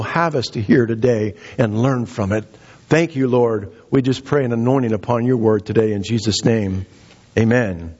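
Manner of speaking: earnest pulpit prayer, opening and closing low. Real, not acted. Preacher asks God to open the congregation's ears, earnest prayer. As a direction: pray aloud, lifting midway, then settling down to amen.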